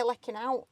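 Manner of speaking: "lecking out" in broad local speech; local dialect word. Shown as a demonstration. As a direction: say "lecking out" as locals do, with a short 'eh'. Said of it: "Like when you say".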